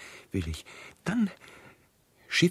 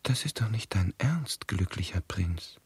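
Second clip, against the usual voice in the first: whispered, much softer, aghast; shocked whisper; 6 semitones lower, 7 dB quieter than usual. Acted. Swallow to prince, horrified he'll go blind, whispering. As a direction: breathe it out in disbelief.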